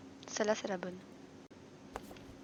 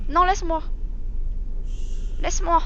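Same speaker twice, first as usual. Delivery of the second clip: mock panic; 7 semitones higher than usual. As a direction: cry it out, pretending to be scared. Monster chases player.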